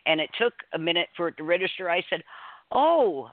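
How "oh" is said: a bright, louder gasp of recognition; the penny drops all at once; surprised oh. Retold or imitated. Realizing the man is Ruby's son, surprised.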